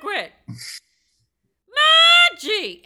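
high-pitched calling of names; two kids at play screaming each other's names; mock childish scream. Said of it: "scream each other's names".

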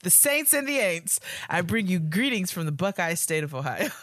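mock church welcome, loud and lifted; church greeting. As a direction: hail them like a church program speaker. Reading letter in church-greeting style.

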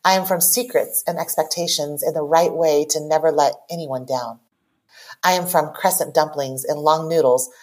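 measured, deliberate spoken poem; poem reading. Acted. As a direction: recite line by line with small pauses. Reads own poem aloud.

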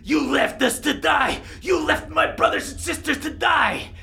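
high-pitched, accusing wolf voice; Toma. Acted. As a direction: rage at traitors, building to a shout. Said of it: "Toma of the Winter Wolves".

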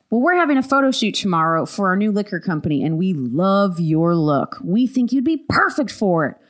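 put-on southern accent. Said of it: "Have you ever had a southern accent".

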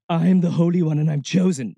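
loud, high, grandiose proclamation; mock holy one. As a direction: proclaim it in hammed-up self-importance. Mocks a self-appointed chosen one.

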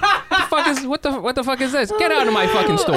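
hammed-up furious Asian mom, accent thick; angry Asian mom accent. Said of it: "She'd be like".

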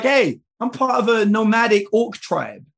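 a hint of a confronting orc chief; mild mock orc demanding answers. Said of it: "And so as the orc".

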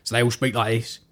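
lightly put-on East End lad accent; a hint of East End London speech. Showing host how East End lads talk, East End accent. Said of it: "a lot of East End lads".

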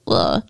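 low groan of disgust; grossed-out low grunt; disgusted ugh. Real, not acted. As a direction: let out a low, revolted ugh. Disgusted by the killer's claim.

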